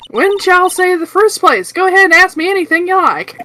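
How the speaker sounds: Southern charm, inviting the others to talk; Southern accent. Acted. Lotta greets the investigators in a Southern accent. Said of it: "Southern American accent".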